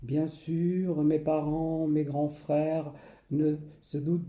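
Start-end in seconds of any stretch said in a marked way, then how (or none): none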